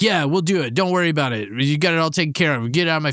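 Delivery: imitating a no-nonsense woman in charge; brusque. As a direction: brush them off, mildly hammed up. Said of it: "very brusque".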